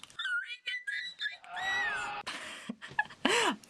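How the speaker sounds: shrill cartoon giggle; squeaky high laugh. Vlogger laughing after puppet voices, very high giggle.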